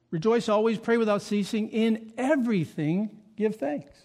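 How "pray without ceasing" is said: ordinary delivery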